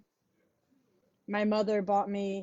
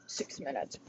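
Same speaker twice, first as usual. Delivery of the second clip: soft unvoiced whisper; 9 semitones lower, 10 dB quieter than usual. Real, not acted. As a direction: breathe the words to yourself. Reading timer under breath.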